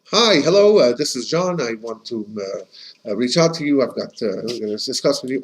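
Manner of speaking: lightly acted halting business call; tentative caller searching for words; hesitant phone caller.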